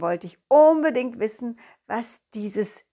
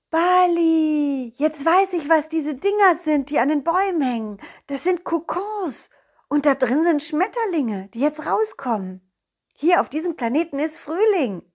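high excited dog voice; bursting with discovery; excited cartoon dog; 4 semitones higher than usual.

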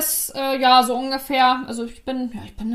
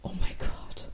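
whispered; 9 dB quieter, slower than usual. Real, not acted. Stunned reaction to a sex-toy idea.

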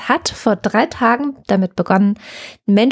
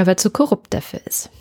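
whispered, conspiratorial jab; whispered aside. Real, not acted. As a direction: whisper the punchline. Sarcastic aside about corrupt executive.

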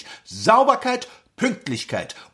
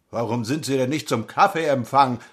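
clipped nasal officer; 5 semitones lower than usual. Acted. Lieutenant asks.

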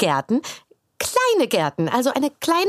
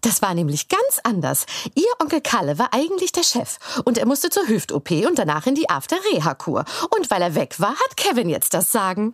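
neutral retelling. Shown as a demonstration. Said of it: "klang das ganz falsch und vorwurfsvoll".

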